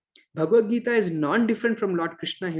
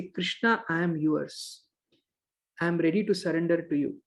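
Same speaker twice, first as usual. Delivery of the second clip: soft surrender; 2 semitones lower, 4 dB quieter than usual. Retold or imitated. Devotee's surrender prayer.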